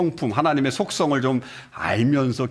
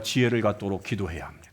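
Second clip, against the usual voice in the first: whisper; 7 semitones lower, 5 dB quieter than usual. Real, not acted. Sermon exhortation.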